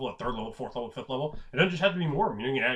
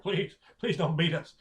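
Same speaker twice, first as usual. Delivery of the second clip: pleading; 4 semitones higher than usual. Acted. Halflings begging giant orcs.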